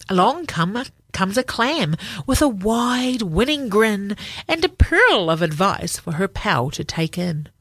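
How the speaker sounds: put-on gentle read-aloud for children; story narration. A narrator's reading. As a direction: tell it like a bedtime book.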